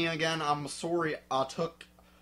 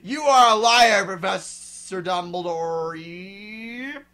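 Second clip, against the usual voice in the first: loud furious accusation, then slower; angry accusation; 4 semitones higher, 11 dB louder, slower than usual. Acted. Narrator accusing Dumbledore, furious shout. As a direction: hurl the accusation at him. Accusing quote in dramatic reading.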